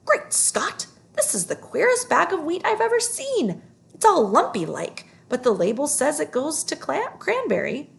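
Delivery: sailor yelling. Acted. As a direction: shout it out like a startled sailor in the hold. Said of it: "one sailor yelled".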